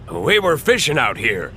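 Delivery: dramatic. Acted. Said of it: "one said dramatically".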